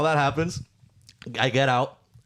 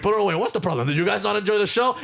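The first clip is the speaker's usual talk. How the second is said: Cuban uncle; 8 semitones higher than usual. Retold or imitated. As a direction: wave it all away like an outraged Cuban uncle. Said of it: "I started being a Cuban uncle".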